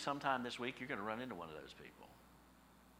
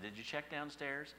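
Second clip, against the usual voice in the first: kindly asked; 4 semitones higher, slower than usual. Retold or imitated. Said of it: "she asked me very kindly".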